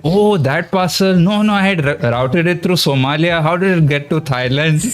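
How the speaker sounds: playful mock innocence. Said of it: "I was playing around here".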